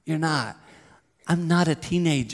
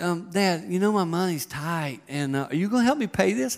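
put-on lightly higher, wheedling kid; pleading son; 4 semitones higher than usual. Son asking dad to pay the fine, wheedling. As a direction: coax dad for money. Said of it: "He's like".

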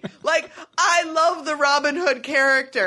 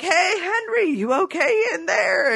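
Robin Hood; 6 semitones higher than usual. Retold or imitated. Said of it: "Robin's like".

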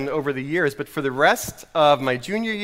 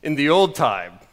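"in the old time" in a put-on Scottish accent; mock Scottish accent; old Scottish pastor. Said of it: "this old Scottish pastor said".

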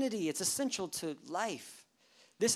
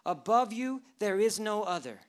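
praying; 3 semitones higher, 5 dB louder than usual. Acted. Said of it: "Jesus is essentially praying".

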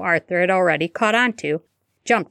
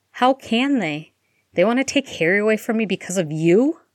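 furious; 4 semitones higher than usual. Acted. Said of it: "Sirius stared furiously at him".

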